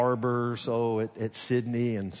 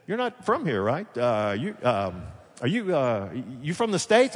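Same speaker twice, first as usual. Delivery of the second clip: imitating curious locals. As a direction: mimic a stranger feeling out where you're from. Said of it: "they say".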